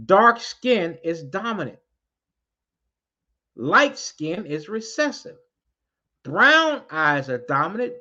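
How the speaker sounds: slow, each word weighed out; deliberate slow restatement for the crowd; slow emphatic repeat. Real, not acted. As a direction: spell it out slowly so it sinks in. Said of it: "I'm gonna say it again".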